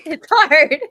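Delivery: high, loud complaining granny; old lady voice. Acted. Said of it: "my old lady voice".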